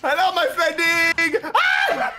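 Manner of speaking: laughing shout. Pretend. Laughing shouted greeting in game.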